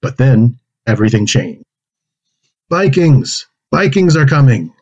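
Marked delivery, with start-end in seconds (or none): 2.7-4.7 alarm cry. Acted. Alarm at approaching Vikings.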